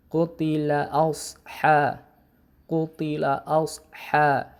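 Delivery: "asha" with a thick, heavy s; slow "qutila asha" with a full, heavy shad; demonstrating the heavy letter shad. Shown as a demonstration. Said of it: "huruf so itu kan huruf tebal".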